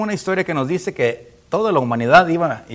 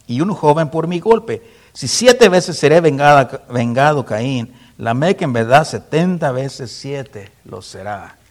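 slow proclamation; 6 dB louder, slower than usual. Acted. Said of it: "pequeño poema".

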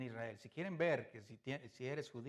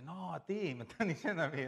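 laughing reply; 3 semitones higher, 9 dB louder than usual. Retold or imitated. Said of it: "voltea y le dice".

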